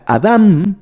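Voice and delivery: Adam stressed on the second A, with final M; Hebrew pronunciation. Shown as a demonstration. Preacher returning to the specific Hebrew word, emphatic Adam with final M. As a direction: lean into the last syllable of Adam, closing on M. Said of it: "esta palabra específica".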